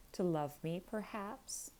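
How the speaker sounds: a light sneering jab at his sister. Acted. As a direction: let a mild sneer curl through the question. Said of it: "pursued her brother with a sneer".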